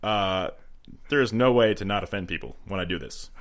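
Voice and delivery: lightly voiced presidential speech with pauses; a hint of measured statesman, filler and all; Obama. Shown as a demonstration. Telling the co-host he will offend, lightly voiced Obama. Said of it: "a pretty good Obama impression".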